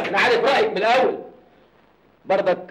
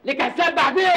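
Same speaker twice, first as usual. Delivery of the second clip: threatening shout; 5 semitones higher than usual. Acted. Gunman threatens the wedding.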